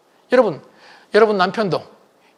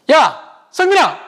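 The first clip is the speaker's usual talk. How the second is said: blunt, higher call to son; gruff call; 7 semitones higher, 4 dB louder, much slower than usual. Retold or imitated. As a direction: bark the son's name bluntly. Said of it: "부를 때 퉁명스럽게". (아들을 퉁명스럽게 부르는 목소리)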